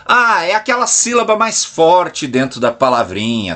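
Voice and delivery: leve imitação de aluno em alfabetização; fala de criança. Acted. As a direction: fale imitando de leve uma criança explicando. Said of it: "aquela forma de falar como criança". (um toque de voz infantil)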